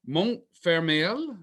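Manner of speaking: Montfermeil said slowly, stumbling through the French; unsure French name. Real, not acted. Host recapping the film, fumbling the French town name slowly. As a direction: sound out Montfermeil carefully and slowly. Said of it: "which I definitely did not say that right".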